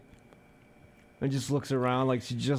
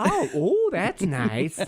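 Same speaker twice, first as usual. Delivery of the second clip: mock pleasure; 7 semitones higher, much slower than usual. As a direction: act delighted by the buzz. Acting pleasure at vibration.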